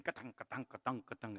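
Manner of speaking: soft, repeated clanking imitation; imitated gas igniter clicking. Man recalling lighting the gas at a braai, quietly imitated clicking. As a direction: tap out the igniter's rhythm under your breath. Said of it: "and the going".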